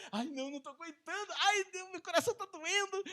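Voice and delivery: high, fretful mock anguish, laughing; mock anxious wife. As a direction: overplay a worried woman through laughter. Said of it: "A Raquel ficou aflita no coração".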